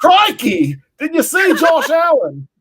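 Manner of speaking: put-on high, loud, slow Blunden accent. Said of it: "my, uh, Blunden, uh, accent ready".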